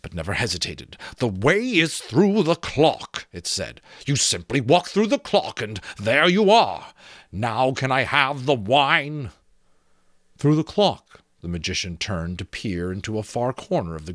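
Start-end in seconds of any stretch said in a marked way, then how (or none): 1.2-3.3 raised, slow skull voice; slow and knowing, up high like an old skull; a creaky talking skull explaining. Acted. Skull character voice. 4.0-9.3 a creaky talking skull explaining. Acted. Skull character voice. 10.4-11.2 incredulous echo. Acted. Magician echoes incredulously.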